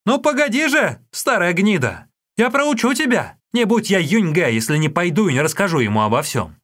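high, loud vengeful threat; boy shouting. Acted. Boy shouting threats back at the old woman. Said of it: "крикнул старухе".

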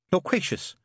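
high, empty, entranced tone; hollow voice. A narrator's reading. Mary correcting her name in a trance, hollow. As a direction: answer hollowly as if under a spell. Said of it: "in a hollow voice".

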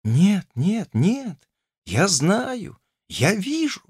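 lightly voiced young girl, insistently repeating. A narrator's reading. Olesya to Ivan, insistent and a little high. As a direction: keep repeating it stubbornly. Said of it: "твердила она настойчиво".

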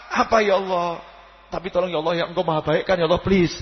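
acted pleading prayer to God; loving plea. Shown as a demonstration. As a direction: coax and beg, as if talking to a beloved. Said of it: "asik bahasa cinta kepada Allah".

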